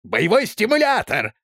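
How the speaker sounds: high, proud exclaim of стимулятор; doctor proudly naming his injection, high and eager; proud exclamation. A narrator's reading. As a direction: announce it like a triumph. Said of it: "гордо воскликнул Док".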